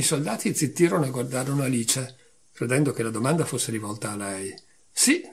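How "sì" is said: sharp, much higher yes; cried out. A narrator's reading. Alice calling out yes to the queen. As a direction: pop it out eagerly. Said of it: "gridò Alice".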